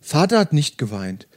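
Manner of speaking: steady audiobook narration with light character voices; story reading. Acted. Host reading Murakami to podcast listeners, calm narration. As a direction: read the novel passage aloud, calm and even. Reads novel aloud to listeners.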